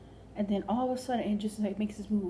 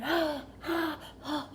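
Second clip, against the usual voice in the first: mock yell; 5 semitones higher, much slower than usual. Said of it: "He's, like, yelling".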